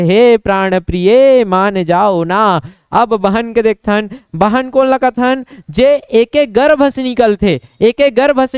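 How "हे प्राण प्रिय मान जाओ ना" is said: slow, tender coaxing; lovingly. Acted. Husband sweetly pleading with his wife to forgive him, slow and tender. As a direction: draw out the plea with affection. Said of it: "तो प्यार से कहा थे".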